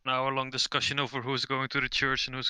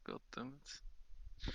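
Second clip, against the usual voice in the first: whispered curse; 20 dB quieter, much slower than usual. Real, not acted. Muttered curse.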